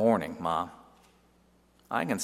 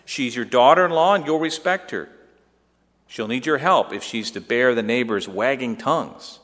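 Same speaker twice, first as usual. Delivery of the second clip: louder, commanding tone; head of the house; 3 semitones higher, 5 dB louder than usual. Acted. Son telling mother to respect Mary, commanding. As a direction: speak as the man in charge. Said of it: "as if I were the head of the house".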